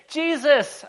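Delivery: high, loud call; two beggars hollering for attention; acted cry across a crowd; shouting. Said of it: "blethering and shouting".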